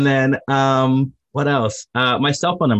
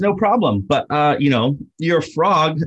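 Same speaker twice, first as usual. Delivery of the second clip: higher, polite clerk voice for the frog; lightly voiced bank clerk; 5 semitones higher than usual. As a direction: play the friendly loan officer, slow on the frog line. Banker woman voiced in joke.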